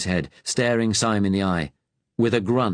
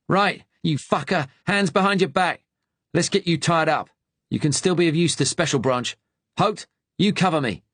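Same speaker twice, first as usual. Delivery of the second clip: Cockney gunman; 8 semitones higher than usual. A narrator's reading. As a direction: bark it in rough Cockney. Cockney gunman barking orders.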